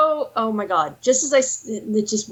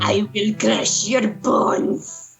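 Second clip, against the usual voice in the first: barbarian; 3 semitones lower, much slower than usual. Pretend. Playful barbarian threat voice.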